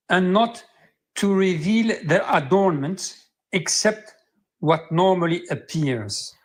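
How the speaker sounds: slow, measured recitation of verse; scripture reading. Acted. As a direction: read it slowly, like scripture. Reads Quran verse aloud.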